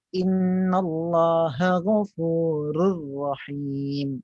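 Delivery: slow chanted recitation, distinct HA and throaty GH; clear correct ghin. Shown as a demonstration. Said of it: "naikkan ke atas". (bacaan tartil, ghin disebut jelas)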